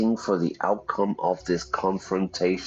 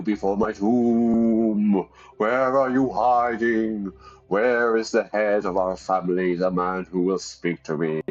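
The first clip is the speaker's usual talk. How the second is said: lightly voiced commanding ancestor ghost; a hint of a stern old spirit calling out; ghost grandfather. Ghost demands family's head step forward, mildly commanding.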